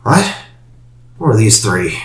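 put-on high, cracked old woman voice; squinting old crone. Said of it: "A very old woman is gonna emerge".

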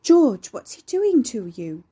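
high, loud, slow woman's call; sibilant woman's voice. A narrator's reading. Mother calling from upstairs to her husband, high and sibilant. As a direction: call down drawn-out in a female voice. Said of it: "A sibilant woman's voice whiffled down".

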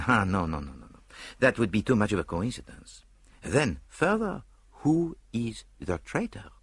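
dismissive Belgian detective, pondering; detective weighing the traitor question; Poirot's voice. Acted. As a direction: wave it off, then reason aloud.

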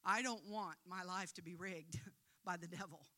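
a gentle model prayer, spoken for them; sample prayer. Shown as a demonstration. Preacher modelling a prayer of repentance for the congregation, gently. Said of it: "you say something like this".

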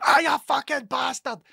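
high, loud mock yell at the cat; imitated yell. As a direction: bellow it like being bitten awake in the night.

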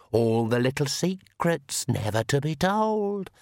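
very slow, eerie accusing voice; shadow voice. Acted. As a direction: drag out the accusation from the dark. Shadow voice taunts.

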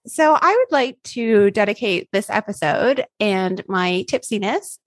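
slow, loose tipsy speech. Real, not acted. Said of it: "we're verging on drunk right now".

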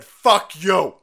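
loud, defiant fuck you; parents' defiant shout. Retold or imitated. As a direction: shout it back like an angry crowd of parents. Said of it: "parents showed up and said".

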